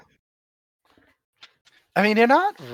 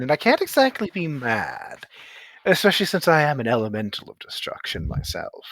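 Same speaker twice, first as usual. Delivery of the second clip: lightly voiced ancient elemental; 4 semitones higher than usual. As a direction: weigh each word like an ancient being. GM holds Ancient One voice.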